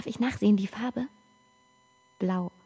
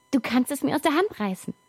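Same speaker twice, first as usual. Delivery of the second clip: higher, pushier repeat; urging; 4 semitones higher, faster than usual. Acted. Child urging father to grab from hand. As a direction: urge him on, a bit higher.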